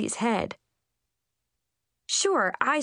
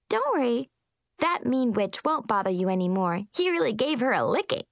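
giggling; 4 semitones higher than usual. Acted. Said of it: "she giggled".

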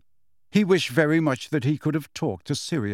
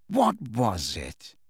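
Snape voice; 3 semitones lower, much slower than usual. A narrator's reading.

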